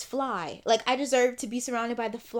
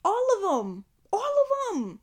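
crying; 7 semitones higher than usual. Real, not acted. Recalling past pain to viewers, crying. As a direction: voice breaking into tears, pitch climbing.

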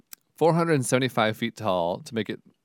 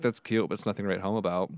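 sassy. Retold or imitated.

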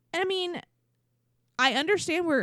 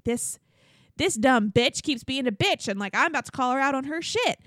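higher, louder retold rant; mock indignation; 5 semitones higher, 3 dB louder than usual. Retelling a contestant's complaint to Caitlyn, mock indignant. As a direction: act out a fed-up complaint, punchy.

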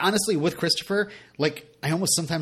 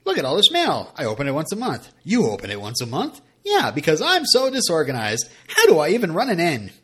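mocking Lorelai; 3 semitones higher, 6 dB louder than usual. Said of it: "me being angry with my notes".

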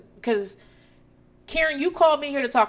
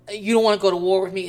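louder, fast mock threat; quoted iconic line; 6 dB louder, faster than usual. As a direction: quote the famous line with punch. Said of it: "is an iconic line from the series".

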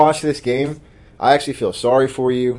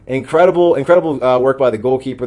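excited praise; 2 semitones higher, 5 dB louder than usual. Real, not acted. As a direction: rave about the keeper's saves. Praising goalkeeper save.

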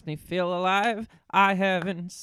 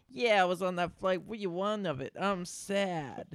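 mock Hurley; 3 semitones higher than usual. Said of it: "Hurley's like".

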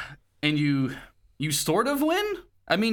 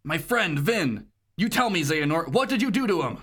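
raised-pitch acted demand; angry Terra voice; 3 semitones higher than usual. Terra demanding what happened to a friend, acted anger. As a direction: confront the villain, playing the hero. Plays Terra confronting Xehanort.

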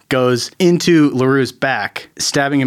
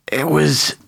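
slow dying reveal; 2 semitones higher, slower than usual. Acted. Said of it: "He says".

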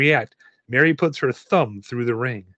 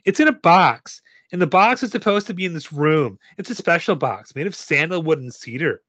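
put-on higher-pitched Valley Girl lilt; 4 semitones higher than usual. Girl describing her mama's special box, Valley Girl. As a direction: slip into a light Valley Girl voice. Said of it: "I turned Valley Girl there".

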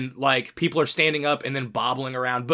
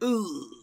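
soft, higher-pitched mock "ooh"; a small drawn-out ooh of discomfort; imitated wincing "ooh"; 6 semitones higher, 6 dB quieter than usual. Podcaster imitating executives reacting to bad news, softly wincing.

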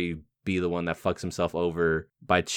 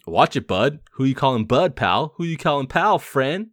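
loud, high-pitched escalating challenge; mock confrontation; 9 semitones higher, 6 dB louder than usual. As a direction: act out a squabble, climbing higher with each comeback. Acted quarrel from the film scene.

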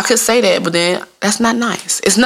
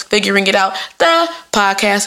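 podcast host voice; 2 semitones higher than usual. Shown as a demonstration. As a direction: stretch the title like an announcer. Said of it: "I gotta put that voice on".

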